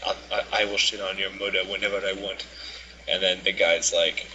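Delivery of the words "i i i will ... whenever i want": imitated African accent, taunting; mocking African accent. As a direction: mimic his African accent to mock him. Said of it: "mocking him".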